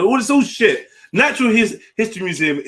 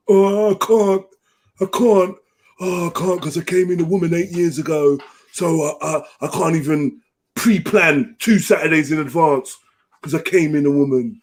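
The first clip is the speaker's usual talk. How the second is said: mock excuse-making; 2 semitones higher than usual. Mocking absent dads' excuses to the listeners, put-on pleading. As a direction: imitate a feeble excuse, pitch settling as it goes.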